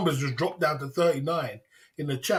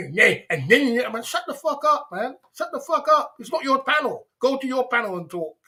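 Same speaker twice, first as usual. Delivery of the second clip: mock shout; 4 semitones higher than usual. Mocking rant at talker.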